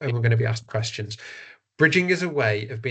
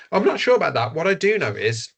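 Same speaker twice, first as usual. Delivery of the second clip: higher and louder, politely steering away; polite bridging answer; 5 semitones higher, 3 dB louder than usual. Shown as a demonstration. Trainer demonstrating media interview bridging, polite and firm. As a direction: bridge calmly to the key message. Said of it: "more respectful in the way we answer".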